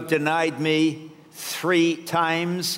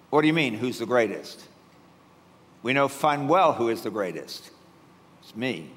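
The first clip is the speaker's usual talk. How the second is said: smug boast; 6 semitones lower than usual. Acted. Peter boasting he's the greatest.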